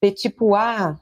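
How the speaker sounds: "petit pois" said peh-chee-PWAH; Brazilian pronunciation. Shown as a demonstration. Guide shows a French loanword, "petit pois" as peh-chee-PWAH. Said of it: "We say".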